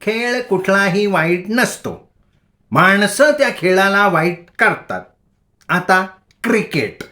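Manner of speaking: high, slow lecturing voice; odd preachy madwoman. A narrator's reading. Bhagi lecturing the boys on games, high and slow. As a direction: moralize slowly like a crazed sage. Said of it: "विचित्र हसली आणि म्हणाली".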